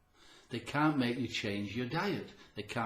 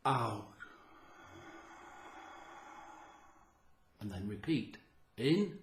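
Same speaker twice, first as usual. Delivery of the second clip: slow breathing count; 5 dB quieter, slower than usual. Shown as a demonstration. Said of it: "but just watch".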